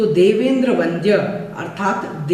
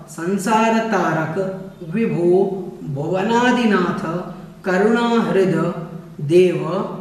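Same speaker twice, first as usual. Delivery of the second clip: slow recitation; slower than usual. Shown as a demonstration. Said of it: "अन्वय होता है इसका".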